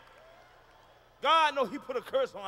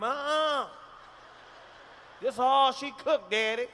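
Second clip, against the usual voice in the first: put-on child refusing; 2 semitones higher, slower than usual. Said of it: "You ask the kid".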